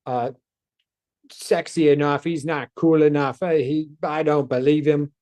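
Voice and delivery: put-on a light New York Boston accent on an imagined critic; mock New York Boston sneer, lightly done. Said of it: "this is apparently my New York Boston accent".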